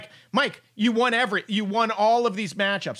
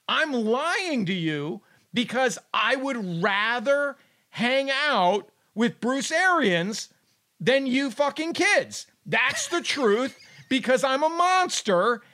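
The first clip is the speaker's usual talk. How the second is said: slow, drawn-out hammed-up admission; blunt mock confession to the kids; 3 semitones higher, slower than usual. Acted Brady confession to his kids.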